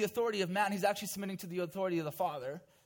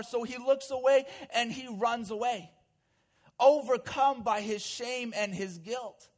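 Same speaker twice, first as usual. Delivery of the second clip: raised, emphatic sermon storytelling; impassioned preaching; 5 semitones higher, 4 dB louder than usual. A narrator's reading. Preacher dramatizing Peter's shame to the congregation, impassioned. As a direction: press the drama home in a higher voice.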